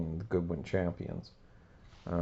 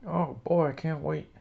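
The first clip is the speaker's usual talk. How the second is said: high, thrilled goofy voice; Gerald Ford puppet voice; 8 semitones higher, 3 dB louder than usual. Acted. Gerald Ford excited about more football, high goofy voice. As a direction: gasp with childish glee. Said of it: "good job, Mister Ford".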